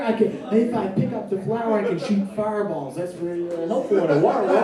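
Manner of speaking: a hint of Mario, played as a real plumber; Mario impression. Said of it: "I'm gonna do an impression now".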